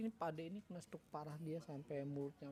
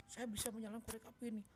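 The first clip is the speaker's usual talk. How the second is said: confident; 4 semitones higher, faster than usual. Retold or imitated. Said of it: "kencang, meyakinkan, dan penuh percaya diri".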